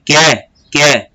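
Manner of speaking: "quer" as que and é fused into one syllable, "kié"; one single sound. Shown as a demonstration. Teacher showing a vowel junction, que é fused into one sound. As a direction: say "quer" twice, each as one fused beat. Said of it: "Você pronuncia de uma maneira só".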